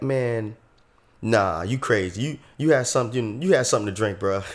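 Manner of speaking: lightly Southern skeptic; mock Southern accent. Friends doubt the kid's alien tale, mock Southern accent. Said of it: "doing, like, a whole Southern accent".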